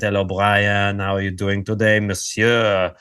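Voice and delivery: put-on a light French accent, like Fred. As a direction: lightly imitate a French host's greeting. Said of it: "very French accent".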